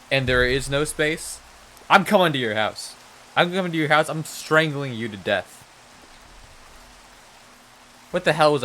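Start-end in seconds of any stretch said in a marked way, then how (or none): 1.9-5.6 mock threat.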